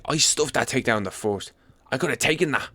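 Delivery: put-on a weak, half-hearted stab at a McGregor-style Irish accent; mock a fighter's excuses in a badly faked Irish accent; terrible Irish accent. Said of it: "That was a terrible attempt".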